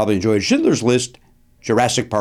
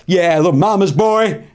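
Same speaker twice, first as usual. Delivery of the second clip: slow, slightly raised teasing jeer; mock taunt; 5 semitones higher than usual. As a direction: tease him, drawn out. Acts out a taunting voice.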